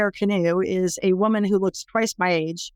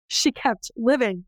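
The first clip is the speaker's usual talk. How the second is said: slow echo; 3 semitones higher, slower than usual. Real, not acted. Speaker echoes the survivor's endurance, slow restatement. Repeated emphasis.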